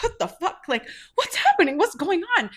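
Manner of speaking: high-pitched, alarmed demand to know what happened; retold outburst of bewildered outrage; shocked disbelief. Sisters walk up on the bartender grabbing the can, shocked outburst.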